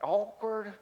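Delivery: drawn-out wry aside; a wry aside to the congregation; deadpan awkward. Acted. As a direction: let the word hang, wry and knowing. Repeated comic aside.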